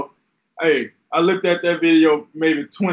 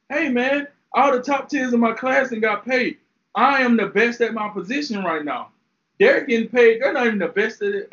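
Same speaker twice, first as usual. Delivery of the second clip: a hint of an aggrieved star player, pitched higher; voicing Jalen Ramsey; 4 semitones higher than usual. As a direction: lightly play the underpaid player demanding his money. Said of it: "I'm like".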